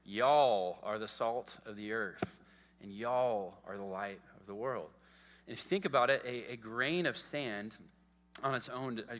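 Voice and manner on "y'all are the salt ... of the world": playful Texan. Shown as a demonstration. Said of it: "Jesus speaks Texan".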